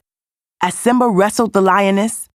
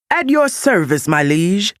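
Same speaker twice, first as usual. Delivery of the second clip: bright, eager bow to the king; Pumbaa's eager greeting; 3 semitones higher than usual. Acted. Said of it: "said Pumbaa".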